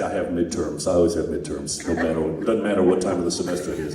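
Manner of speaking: low mock-whiny excuse voice; imitating Jeff. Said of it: "he'd say".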